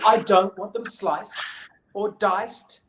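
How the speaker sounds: hammed-up picky-eater complaint; emphatic refusal. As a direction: punch each item like a cross child. Betty lists refusals crossly.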